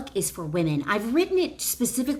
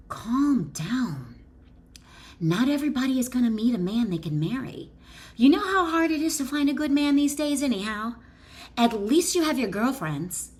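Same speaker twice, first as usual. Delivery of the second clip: fast, higher condescending consolation; patronizing inner voice; 5 semitones higher than usual. Acted. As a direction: pat her on the head, dismissively. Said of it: "your principal mind, might reason".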